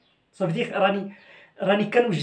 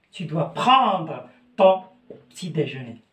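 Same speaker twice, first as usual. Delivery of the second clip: slow teaching demo; 3 semitones lower than usual. Shown as a demonstration. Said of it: "teacher drills the phrase".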